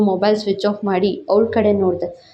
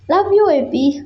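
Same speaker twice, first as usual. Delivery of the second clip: higher, sweet reply; happy girlfriend; 7 semitones higher, much slower than usual. A narrator's reading. Girlfriend answering his I love you, high and sweet. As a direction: answer lovingly in her voice. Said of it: "ಖುಷಿಯಾಗಿದ್ಲು".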